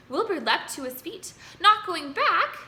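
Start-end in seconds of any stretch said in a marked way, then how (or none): 1.6-2.6 high, loud startled cry; cried out. A narrator's reading. Wilbur crying out to Charlotte in shock, loud and high. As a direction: leap up and cry out in alarm. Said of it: "he cried".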